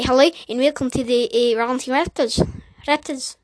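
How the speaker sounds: tentative, put-on South African accent. Shown as a demonstration. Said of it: "South, South African".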